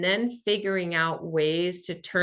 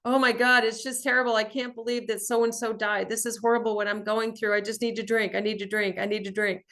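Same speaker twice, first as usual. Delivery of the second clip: higher, whiny mock lament of her old excuses; mock self-pitying whine; 4 semitones higher than usual. Imitating her old self to viewers, a higher self-pitying whine. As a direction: mimic your past self begging for a reason to drink. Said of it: "Here was my bullshit".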